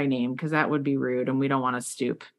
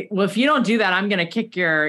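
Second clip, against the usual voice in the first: louder, lightly hammed-up bully threat; mock threat; 4 semitones higher, 4 dB louder than usual. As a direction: throw the threat at the girl, half-bold.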